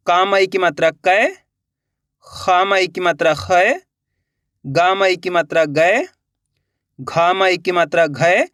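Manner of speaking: slow spelling chant, final "कै", "खै", "गै", "घै" drawn out and rising; vowel-sign drill. Shown as a demonstration. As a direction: stretch each ai syllable "कै", "खै" upward. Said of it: "इस तरीके से आप का से लेके". (धीमा अभ्यास, "कै", "खै" का ऐ खींचकर)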